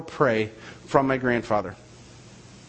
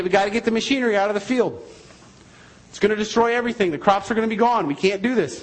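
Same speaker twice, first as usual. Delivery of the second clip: retold urgent warning; 4 semitones higher, faster than usual. Sons urgently warning Grandpa of storm.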